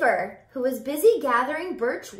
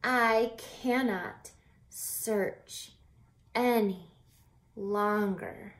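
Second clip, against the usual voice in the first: very slow, each word set apart; slow tired words; slower than usual. Shown as a demonstration. The teacher shows how tired Charles is, very slow exhausted delivery. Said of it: "so tired he can't even form a sentence".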